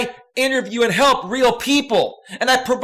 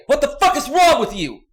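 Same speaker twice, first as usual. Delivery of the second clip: angry outburst; 4 semitones higher than usual. Real, not acted. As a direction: bark it at the chat. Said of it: "I am being angry".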